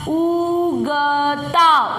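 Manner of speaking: उगता stretched out slowly, syllable by syllable; slow reading demo. Shown as a demonstration. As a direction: draw out उगता slowly for the child. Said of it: "अब पढ़ो, देखिए पूरा शब्द". (धीरे धीरे खींचकर पढ़ना)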